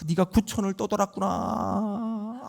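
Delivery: soft, slow eerie shaman channelling a ghost; mock spirit-medium voice. Preacher imitates a shaman addressing a ghost, soft slow mock trance voice. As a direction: croon like a shaman speaking to a wandering spirit. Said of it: "왔다고 그러잖아요".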